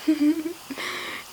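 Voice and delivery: soft, high giggle; giggling. Real, not acted. Hearing her backwards word played, soft giggling. Laughs at playback.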